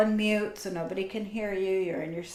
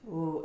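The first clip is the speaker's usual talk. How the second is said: ooh sound. Shown as a demonstration. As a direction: let a gentle ooh carry the feeling. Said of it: "do the ooh sound as I drum".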